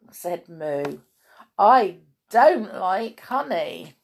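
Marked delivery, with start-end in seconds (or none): 1.6-4.0 slow, loud protest, word by word; emphatic story-character distaste; disgusted complaint. Acted. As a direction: lean hard on every word of the refusal. Moo disgusted by honey.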